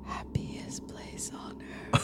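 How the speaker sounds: breathy whisper right at the ear; slow, creepy whisper; whispering in your ear. Acted. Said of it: "you can hear him whispering in your ear".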